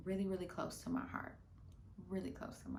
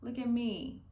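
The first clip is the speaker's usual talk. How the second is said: showing off; much slower than usual. Retold or imitated. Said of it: "be like".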